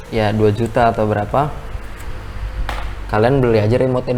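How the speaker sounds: talking around a cigarette; cigarette in mouth. Real, not acted. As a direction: speak with a cigarette between the lips. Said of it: "Gue sambil ngerokok deh". (bicara sambil merokok)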